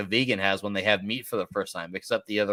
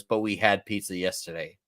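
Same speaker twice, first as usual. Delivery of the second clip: retold grave objection, softer; suddenly serious; 3 semitones lower, 5 dB quieter than usual. Roommate at metal fest vetoing pizza, retold as serious. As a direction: say it soberly, like bad news. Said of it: "then it gets really serious".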